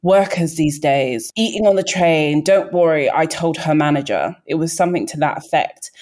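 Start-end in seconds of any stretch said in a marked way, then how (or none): 0.0-4.3 mock tutting complaint; lightly acted indignation; imitated disapproval. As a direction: imitate a self-satisfied busybody reporting someone. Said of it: "was kind of like".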